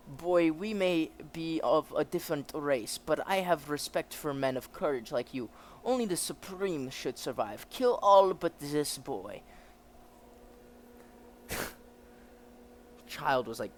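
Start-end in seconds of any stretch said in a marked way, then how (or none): 0.1-9.4 commanding officer with a put-on German accent; German officer character. German officer explains the prisoner's state, acted officer voice.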